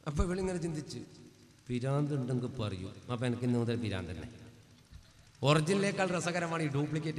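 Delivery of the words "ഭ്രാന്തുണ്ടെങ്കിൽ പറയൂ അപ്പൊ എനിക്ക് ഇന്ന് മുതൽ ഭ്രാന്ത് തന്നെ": low, soft, to herself; sly quiet scheming. Acted. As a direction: murmur it like a private plan. Daughter plotting quietly. (പതുക്കെ ഗൂഢമായി)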